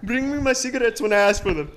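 lightly Irish-flavoured order; Irish accent. Acted. Friend tries the cigarette line in a light Irish accent. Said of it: "you have a good Irish too".

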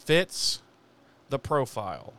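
"Fits" lifted, "the profile" dropped; mocking repeat. Narrator mocking Giles's phrase, drawn out. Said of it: "And I'm like".

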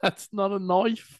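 put-on cheesy Australian accent, slow; bad Australian accent. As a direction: drag it out like the movie.

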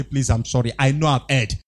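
low, humbled apology; acted contrite confession; mock apology. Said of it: "fall down to their husband and say".

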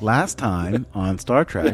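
slow recap announcer voice; previously on recap. Retold or imitated. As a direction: intone it like a TV recap. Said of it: "My all-time favorite recap voice".

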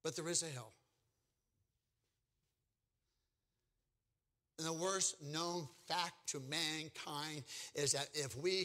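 low, soft and slow, drawing out the dread; solemn hush. Acted. Preacher to young people, hushed and grave about hell. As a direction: let the words sink quietly into the room.

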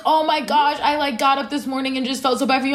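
rushed, mock-earnest sympathy from school acquaintances; mock sympathetic. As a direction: gush it out quickly, a touch mocking. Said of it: "white women ... being like".

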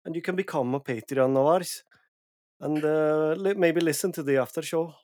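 put-on jokey Norwegian accent drifting Scottish. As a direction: play up a Norwegian accent for the plug. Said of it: "my Norwegian accent".

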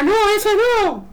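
squeaky, slow put-on voice; high mock voice. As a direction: drag it out in a squeaky voice. Friend's reply acted in story.

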